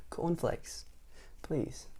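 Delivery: very soft whispered request. Acted. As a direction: barely breathe the words. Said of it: "he whispered".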